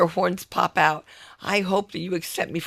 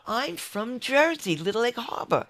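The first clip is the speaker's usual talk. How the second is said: put-on Jersey accent; 4 semitones higher than usual. Woman tells patient her hometown, Jersey accent. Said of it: "That's how they talk".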